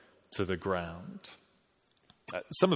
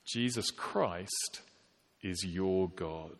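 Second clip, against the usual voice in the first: slow earnest statement; 5 dB quieter, slower than usual. Real, not acted. Sermon's climactic declaration.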